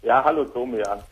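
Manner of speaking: distant hands-free phone sound; on speakerphone. Real, not acted. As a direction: caller on a speakerphone. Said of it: "du klingst so ein bisschen, äh, sprichst du mit einer Freisprechanlage?".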